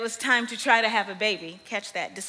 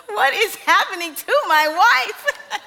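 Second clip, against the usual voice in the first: high, loud, slow mock disbelief, laughing through it; bewildered husband; 10 semitones higher, 9 dB louder, slower than usual. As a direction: play the stunned husband who can't believe his ears. Husband bewildered during wife's outburst.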